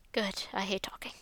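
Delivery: voiceless, wry aside; dry whisper. Acted. Max privately answering Yuri in a dry whisper. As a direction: mutter it to yourself. Max's wry inner reply.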